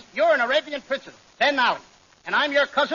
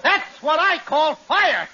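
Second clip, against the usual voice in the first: excited after kiss; 3 semitones higher, slower than usual. Acted.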